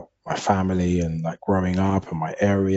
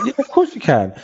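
mock gentle dad; 12 semitones higher, 5 dB louder than usual. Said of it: "And I was like".

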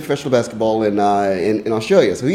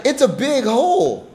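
high-pitched mock insistence; high, laughing imitation of a teasing friend; retold friend's retort; 10 semitones higher than usual.

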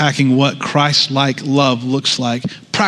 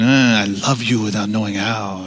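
mock Latino accent; 4 semitones lower, 4 dB quieter than usual. Shown as a demonstration. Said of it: "with, like, a semi-Latino accent".

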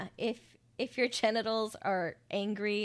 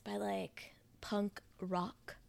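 whispering; 6 dB quieter, much slower than usual. Real, not acted. Whispered aside.

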